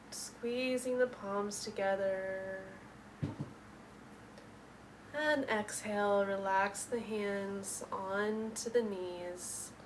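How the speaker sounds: measured yoga-teacher instructions with lingering words; guided meditation. Real, not acted. Yoga teacher settling students into the seat, guided meditation. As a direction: stretch the breath cues, leaving room to breathe.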